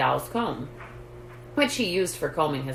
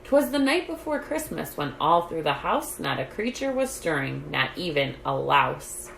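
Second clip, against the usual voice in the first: poem recitation. A narrator's reading. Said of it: "the poem went this way".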